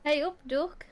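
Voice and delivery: lightly northern greeting; a hint of northern English; northern accent. Shown as a demonstration. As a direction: try a friendly northern hello. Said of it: "That's more like northern".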